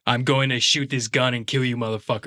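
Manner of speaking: Australian doing American, back in the throat; American accent kept out of the nose; throaty Aussie-tinged American; Hugh Jackman. Shown as a demonstration. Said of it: "It's still in the back of his throat".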